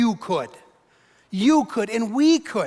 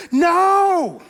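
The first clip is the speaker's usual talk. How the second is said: loud, higher emphatic no; sharp no; 6 semitones higher, 5 dB louder than usual. Real, not acted. Preacher rejecting self-shame, a loud sharp No. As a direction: cut them off hard.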